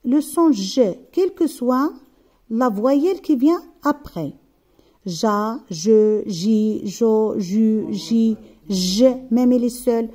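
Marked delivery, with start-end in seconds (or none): 5.0-9.1 "Ja, je, ji, jo, ju, ji, je" as separate syllables, each opening on a voiced ZH; constant j sound. Shown as a demonstration. Teacher drilling the letter J before each vowel, "Ja, je, ji, jo, ju, ji, je" with constant ZH. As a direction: chant out "Ja, je, ji, jo, ju, ji, je" evenly, same buzzed ZH before every vowel. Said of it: "ça se prononce toujours le son G".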